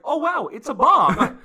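high, slow, delighted gasp of wonder; thrilled high voice of a gleeful man; excited Fester. Retold or imitated. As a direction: gush over the bomb like a happy child. Fester excitedly shaking a present.

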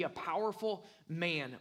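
a slight pause, then weight on "man"; stress on man. Shown as a demonstration. Preacher explaining the expected Messiah, stress on "man". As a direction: lean on the word "man" at the end. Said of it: "with the emphasis on the word man".

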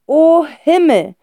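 whispered slow groan; groaning sigh. A narrator's reading. Father giving up, groaning. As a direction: breathe it out, defeated. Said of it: "ächzt Herr Wohlleben".

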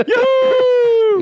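high, loud cheer. Retold or imitated. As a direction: yell it out in joy. Mocking cheer of the heckler.

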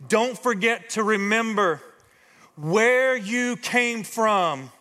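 stretched slow, each word weighed; slow emphatic quote. Shown as a demonstration. Preacher quoting Moses to the congregation, slow and weighty. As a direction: draw out "where you came from" very slowly. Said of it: "That's the first point if you're taking notes".

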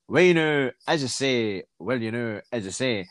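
lightly mimicked, repetitive sing-song catchphrase; bad Dennis Law impression. Mocking a comedian's rubbish later impression, lightly voiced. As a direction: step down in pitch with each mock phrase. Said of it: "he started going".

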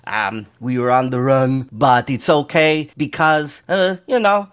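lightly voiced little halfling introducing himself; halfling adventurer. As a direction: play a halfling telling of his deeds, with hesitations. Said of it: "He goes".

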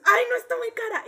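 high, loud imitated wail; hammed-up whiny complaint; mock tearful customer. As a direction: refuse it in pretend tears. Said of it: "Pero llorando, así".

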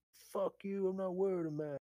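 high-pitched mock belligerence; defiant refusal. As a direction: imitate a stroppy customer refusing. Retelling a customer's angry refusal.

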